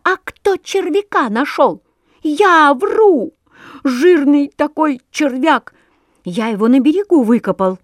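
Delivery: high, loud indignant rant; angry yelling. A narrator's reading. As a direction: shout the grievance at the sweep. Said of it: "орал Воробей Воробеич".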